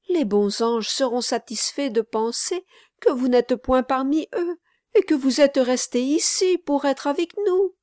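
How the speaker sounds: put-on high, earnest child's voice; sorrowful child persuading a friend to stay; little boy. A narrator's reading. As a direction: reason pleadingly as a small boy. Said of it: "poursuivit le petit garçon".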